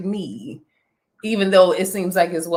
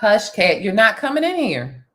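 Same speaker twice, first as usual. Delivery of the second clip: louder, firmer hush to the cat; raised voice to keep the cat out; firm shoo; 3 semitones higher, 6 dB louder than usual. Real, not acted. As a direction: tell the cat off for real this time. Shooing the cat again.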